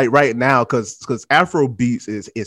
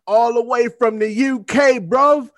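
loud, drawn-out announcer build-up, higher; hype host intro; 8 semitones higher, 5 dB louder, much slower than usual. Acted. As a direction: announce the guest like a ring MC.

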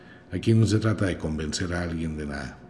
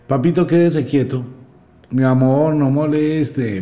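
mock pleading mother; 6 semitones higher, 4 dB louder than usual. Imitating mother pleading with child.

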